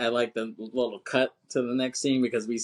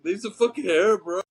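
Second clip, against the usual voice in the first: higher, louder indignant protest; pained yell; 9 semitones higher, 4 dB louder than usual. Retold or imitated. Surfer protesting to Keanu after losing hair, yelling. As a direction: yelp it out after the hair is ripped.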